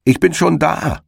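high, triumphant call across the field. Acted. Hedgehog's wife calls to the arriving hare, high and triumphant. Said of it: "rief ihm der Herr Igel entgegen".

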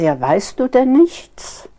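retold astonishment, high and drawn out; incredulous question. Colleague asking whether the presenter hasn't heard the news, incredulous. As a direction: stretch it upward in imitated disbelief.

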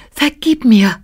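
flüsternder Floh. A narrator's reading. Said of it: "flüsterte der atemlose Floh".

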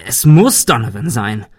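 loud, insistent curse; frustrated, forceful insistence; cursing. Acted. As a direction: swear it out with a hard push on muss. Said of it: "fluchte er".

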